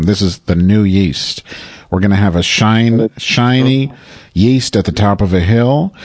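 pompous campaign-rally cadence; lightly voiced politician giving a stump speech; mock presidential speech.

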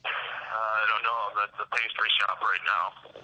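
talking through food; words round a mouthful; mouth full. Real, not acted. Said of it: "sounded like you had food in your mouth".

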